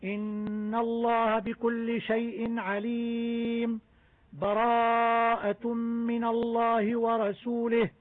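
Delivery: slow Quran recitation, full breath stop after عليم. Shown as a demonstration. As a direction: stop and breathe after عليم, then start براءة fresh. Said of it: "وقطع الجميع". (تلاوة بقطع ووقف مع تنفس بعد عليم)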